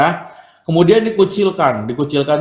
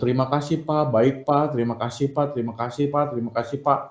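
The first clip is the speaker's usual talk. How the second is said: soft repeated thanks; 6 dB quieter, faster than usual. Pretend. Students replying thanks in group chat.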